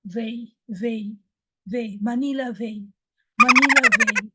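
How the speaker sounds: veio, veio, a Manila vendor's call; mock street call veio; imitating a mispronunciation. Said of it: "when somebody said".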